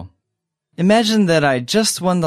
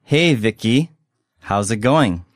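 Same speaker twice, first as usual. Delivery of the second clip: slowly; 2 semitones lower, slower than usual. Shown as a demonstration. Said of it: "one more time slowly".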